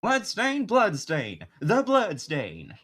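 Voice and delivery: high, loud, slow Southern drawl; Southern accent. Acted. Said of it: "more of a country accent".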